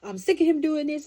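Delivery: loud, shrill-pitched indignation, retold; fed-up complaint. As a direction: vent like you've had it with him. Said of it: "And I was like".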